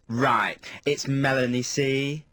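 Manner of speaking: slowly spelling out who she is; retold put-out star announcing herself; horrible, snippy. Pop star to DJ who asked her name, horrible. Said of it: "in a really horrible way".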